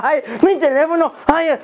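a touch of fake despair for a lost phone; mock phone panic. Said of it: "se les sale el alma". (un leve lamento fingido por el teléfono)

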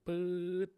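long, high "puuet" noise; drawn-out whoosh sound. Shown as a demonstration. Lecturer showing CPU usage shooting up, drawn-out sound effect. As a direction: imitate a rising zip, held long.

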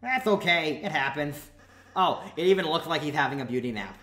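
lightly voiced goofy prince; cheerful prince voice. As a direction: play a cheery young villain prince.

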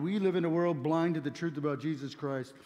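ordinary talk, nothing marked

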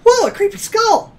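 surprised. Real, not acted. Sudden sight of a skull.

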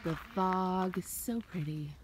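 winded, carrying a heavy bag; talking while short of breath. Real, not acted. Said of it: "Sorry if I sound winded".

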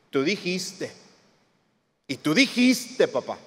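lightly imitated child reminding a parent; a hint of a kid holding dad to it; children pleading. Child to dad about a promise, lightly mimicked insistence. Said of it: "Como cuando los niños nos decían así".

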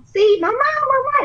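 put-on very high, slow, squealing child voice; excited little girl. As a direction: imitate the thrilled child calling her mom. Excited girl calls her mother.

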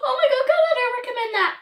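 loud, high disgusted outburst; grossed out after the bean; eating gross jelly beans. Real, not acted.

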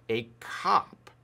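"cop" as Boston-accented "carp", with the r dropped. Shown as a demonstration. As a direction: say "cop" like a Bostonian shortening carpenter. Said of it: "with a Boston accent".

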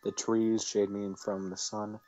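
calm game-text reading; story narration. Acted. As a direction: read the scene evenly. Reads visual novel narration.

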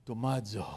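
"Tomazo" quietly, low to the neighbour. Shown as a demonstration. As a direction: softly try out "Tomazo". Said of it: "look them in the eyes and say".

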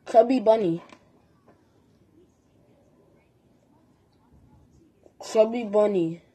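cheeks stuffed full; mouth full. Real, not acted. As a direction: talk through a mouthful of fruit. Tangerines stuffed in mouth, Chubby Bunny.

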